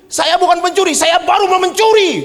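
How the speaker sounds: high, loud outraged protest; indignant thief. Retold or imitated. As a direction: insist on your innocence furiously. (pencuri membantah dengan marah dan keras)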